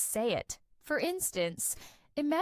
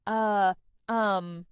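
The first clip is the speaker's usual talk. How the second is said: drawn-out hesitation fillers, louder; filler sounds; 3 semitones lower, 5 dB louder than usual. Shown as a demonstration. Teacher showing learners filler words, deliberate hesitation. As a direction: demonstrate hesitation sounds, each one set apart. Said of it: "Fillers are words or sounds".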